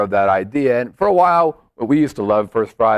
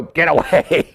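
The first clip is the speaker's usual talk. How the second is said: put-on French accent; 3 semitones higher than usual. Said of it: "That was my French accent".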